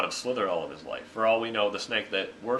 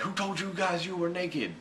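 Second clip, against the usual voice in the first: lightly voiced God, higher and mock-puzzled; God's voice; 9 semitones higher than usual. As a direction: play God as baffled by the word naked. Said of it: "And he's like".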